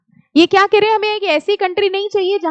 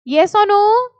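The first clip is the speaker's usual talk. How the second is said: calling out louder to the class; 4 semitones higher, 4 dB louder, much slower than usual. Real, not acted. Teacher calling louder for the class to answer. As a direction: demand an answer. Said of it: "आवाज नहीं आ रही".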